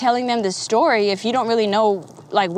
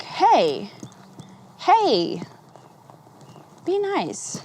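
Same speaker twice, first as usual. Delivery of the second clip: gentle scolding voice; 4 semitones higher, much slower than usual. Retold or imitated. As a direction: hush the inner critic kindly. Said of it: "whose fucking voice is that".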